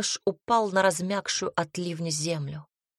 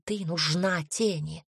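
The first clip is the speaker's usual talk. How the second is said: hissing; 4 dB louder than usual. Acted. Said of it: "прошипела она".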